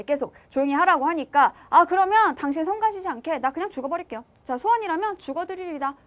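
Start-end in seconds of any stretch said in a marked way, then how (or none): 1.7-5.9 mildly spiteful wife, slightly raised pitch; 얄미운 아내. Acted. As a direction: act a touch provoking, as the wife. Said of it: "되게 좀 얄미워". (살짝 얄밉게 아내 흉내)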